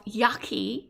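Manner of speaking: yucky, rising and drawn out in disgust; a squeamish little yucky; grossed out. Real, not acted. Reacting to gum chewing on video, rising disgusted yucky.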